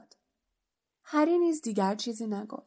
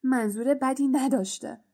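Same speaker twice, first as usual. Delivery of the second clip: scornful repeat, stress on بدی, falling; mild sneering anger; angry mocking echo; 3 semitones higher than usual. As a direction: throw his words back with contempt on بدی. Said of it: "بین با خشم و غضب جفتکی پراند و گفت".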